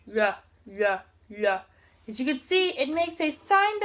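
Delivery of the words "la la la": la said with an R colour, tongue on the L spot; la as a flap between L and R; Korean ryul sound. Shown as a demonstration. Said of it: "try to make an R sound".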